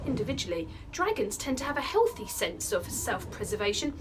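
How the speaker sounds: put-on animated, dramatic children's storytelling; lively read-aloud, leaning into the action words; story narration. A narrator's reading. Teacher reading an adventure chapter aloud to pupils, animated storytelling.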